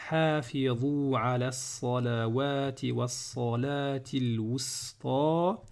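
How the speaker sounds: slow, measured verse reading with long vowels; Quran recitation. Shown as a demonstration.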